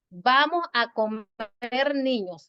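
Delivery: "Vamos a comer niños" read slowly with no break; "Vamos a comer niños" without any comma pause. Shown as a demonstration. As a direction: say it as one slow run. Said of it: "así, sin coma".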